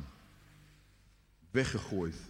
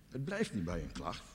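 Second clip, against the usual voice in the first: normal talking voice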